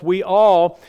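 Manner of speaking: "all" drawn out and hit firmly; stress on all. Real, not acted. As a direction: lean hard on "all". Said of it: "and I emphasize all".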